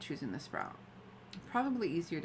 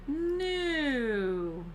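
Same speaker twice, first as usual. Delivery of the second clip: louder, higher stubborn no; firm refusal; 8 semitones higher, 4 dB louder than usual. Acted. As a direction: flatly refuse the tempting bag. Refusing the bag.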